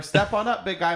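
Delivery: high-pitched, chummy beckoning; mock hearty stranger. Mimicking people who call him big guy, high and hearty. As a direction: imitate someone calling a customer forward.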